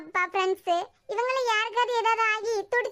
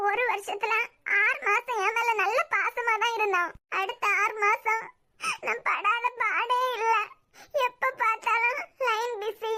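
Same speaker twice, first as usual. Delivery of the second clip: tearful; slower than usual. Acted. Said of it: "அழாத".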